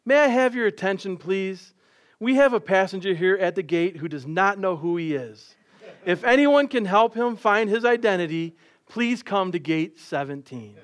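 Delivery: sweet, formal public address voice; PA announcement. Retold or imitated. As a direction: make a calm airport gate announcement, slowing at the end. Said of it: "grabbed her public address microphone".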